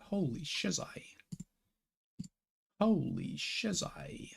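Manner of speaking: breathless whispered amazement; amazed whisper. Real, not acted. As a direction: whisper it, stunned by the numbers. Amazed at viewer count.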